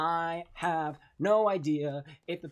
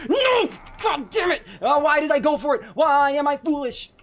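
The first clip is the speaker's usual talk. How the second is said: high angry yell; panicked shout; 9 semitones higher, 10 dB louder than usual. Real, not acted. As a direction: scream in frustration. Caught by killer.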